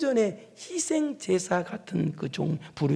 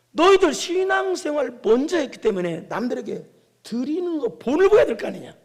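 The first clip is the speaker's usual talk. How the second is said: raised, louder scolding voice; stern rebuke; 6 semitones higher, 5 dB louder than usual. Acted. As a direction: take the leaders to task. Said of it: "뭐라고 꾸짖었느냐? 이렇게 꾸짖은 거예요". (목소리 높여 꾸짖듯이)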